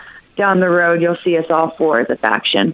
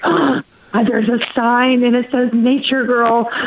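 higher-pitched wonder after a gasp; retold surprise; 4 semitones higher than usual. Wrestler spotting a fan's sign, retold amazement. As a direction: act out a pleased discovery.

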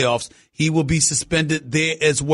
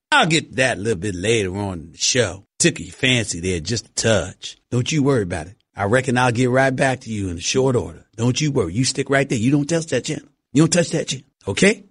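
mock Southern accent; 7 semitones lower than usual. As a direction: reassure the listeners like an old Texas cowboy. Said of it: "with my regular Cowboy accent".

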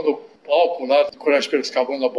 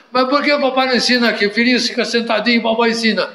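put-on higher, fast childish pleading; whiny little boy; 5 semitones higher, faster than usual. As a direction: talk like a stubborn toddler, quick and high. Child role in sketch.

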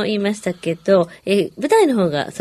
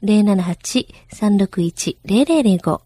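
slower repeat; much slower than usual. Shown as a demonstration. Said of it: "repeated slowly".

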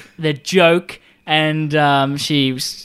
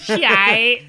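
laughing slang; 7 semitones higher, 3 dB louder than usual. Pretend. Repeating slang playfully.

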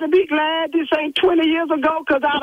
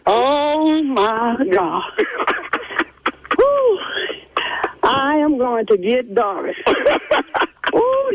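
laughing relief; much slower than usual. Real, not acted. Pranked secretary laughing at her friend's setup, relieved laughter. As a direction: laugh it off, half stunned.

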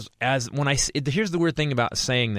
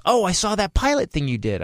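lightly voiced woman, higher pitch; higher-pitched counter worker; imitated barista; 6 semitones higher than usual. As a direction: put on a chirpy customer-service greeting. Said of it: "the woman behind the counter goes".

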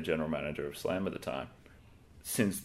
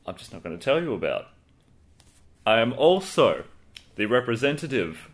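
boastful heel manager self-introduction; lightly gloating, grand manager voice; gloating wrestling manager; 4 dB louder than usual. Acted. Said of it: "we're gonna do it properly".

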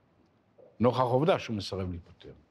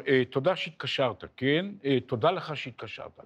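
higher-pitched, over-polite brush-off; mock courtesy, mildly testy; irritated politeness; 4 semitones higher than usual. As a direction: imitate curt thanks hiding irritation. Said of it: "ככל שתגובתו הייתה נרגזת יותר".

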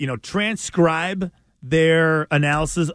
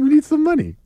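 retold money demand; 9 semitones higher than usual. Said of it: "I was like".

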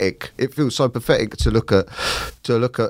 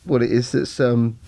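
halting and choked, with long pauses; real tearful upset; 4 semitones higher than usual. Real, not acted. Man searching for what set him off, choked up. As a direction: grope for the words while holding back tears. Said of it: "just set me off there".

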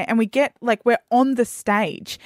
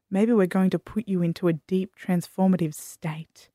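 lightly voiced performer; 4 semitones lower than usual. Bald performer addressing the crowd, lightly voiced hypnotist. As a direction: lull them, lightly imitated. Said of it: "he's like".

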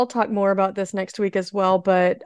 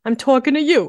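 put-on higher, louder tough-guy New York accent; 5 semitones higher, 5 dB louder than usual. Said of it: "How was my New York accent?".

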